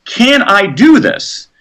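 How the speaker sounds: "Can I do this?" drawn out slowly, rising at the end; slow questioning. Shown as a demonstration. Author voices the self-question slowly and wondering. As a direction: ask it slowly, really wondering. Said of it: "what happens when you ask".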